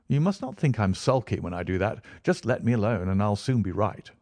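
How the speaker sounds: lightly voiced Holmes.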